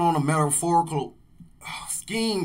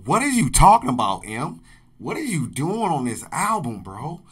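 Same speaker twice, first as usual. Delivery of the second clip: incredulous; 2 semitones higher, 5 dB louder than usual. Real, not acted. Reactor asking the rapper what he's doing, incredulous. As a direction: ask it like you can't believe it.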